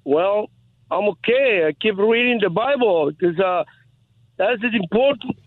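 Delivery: phone held away. Real, not acted. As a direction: voice fading off the phone. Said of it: "I lost you there".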